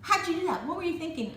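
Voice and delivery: imitating astonished brothers and sisters; amazed siblings. They're going.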